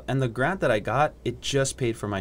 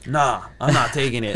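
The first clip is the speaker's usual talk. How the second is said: louder retold refusal with a laugh; 2 semitones higher, 6 dB louder than usual. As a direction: refuse it, amused.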